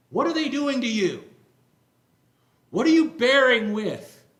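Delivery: rising to a loud, high indignant outcry. Acted. Paul rebuking the church for tolerating false teachers, indignant. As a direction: build from firm to an outraged cry. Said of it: "He's indignant here".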